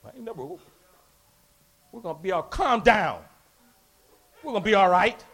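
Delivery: low, soft, slow settling voice; calmed down. Retold or imitated. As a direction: talk him down quietly. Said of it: "That dude went".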